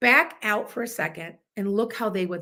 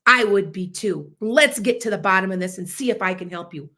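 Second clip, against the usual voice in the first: calm de-escalating; 3 semitones lower than usual. Shown as a demonstration. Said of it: "all they have to do is say".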